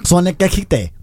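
mock French. Shown as a demonstration. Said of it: "dilo así".

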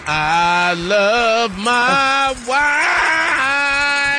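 high crying shout; shouting love for his wife on air; emotional cry. Real, not acted.

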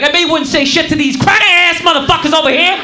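mock-outraged challenge, hitting the insult hard; acted indignant taunt. Stuck passenger goading the conductor about other riders, indignant taunt. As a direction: imitate an angry passenger picking a fight. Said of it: "he gets into it with this guy".

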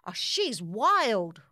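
cried out. Acted. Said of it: "cried the batter".

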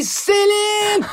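appel aigu, imité en riant; cri imité. Retold or imitated. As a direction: mime le cri de la fan au pied de la tour Eiffel. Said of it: "en train de crier". (imitation d'une amie criant «Céline!» devant la tour Eiffel)

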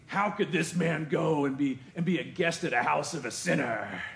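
critical crowd. Retold or imitated. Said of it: "how they said it".

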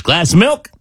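lightly voiced duck, pitch lifting at the end; hopeful duck. Duck ordering from the mad bartender, innocently hopeful. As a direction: ask innocently with a rising lilt. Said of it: "He goes".

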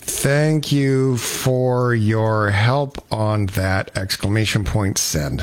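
slow dictated text with spoken punctuation; dictating while driving. Real, not acted. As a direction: read a text aloud as you dictate it. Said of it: "replying back to the Horseshoe Valley text".

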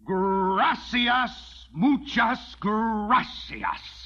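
slow, dripping mock gratitude in Spanish; sarcastic thanks. Rancher refused payment by the widow, sarcastic slow thanks. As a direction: thank her with heavy sarcasm, drawn out.

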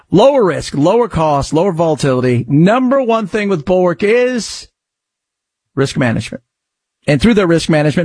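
brisk host-read sponsor pitch; upbeat promotional read. Acted. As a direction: sell it like a radio ad.

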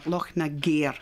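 "Nagair" with gair like air, not gar; original pronunciation. Shown as a demonstration. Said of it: "sort of pronunciation on it".

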